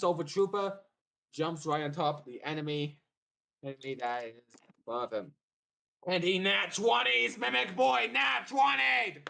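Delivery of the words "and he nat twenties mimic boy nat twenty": hyped, higher and louder; excited. Real, not acted. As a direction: celebrate the roll. Hyping a natural twenty.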